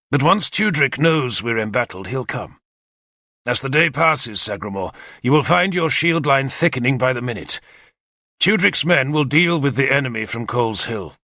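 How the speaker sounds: a lightly voiced commander, brisk and eager; keen war leader briefing his captains; Arthur's plan. Arthur explains the attack to his captains, eager and confident.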